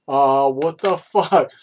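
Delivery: retold shock with a laugh; stunned disbelief. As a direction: react to the ladder going over. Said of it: "I'm like".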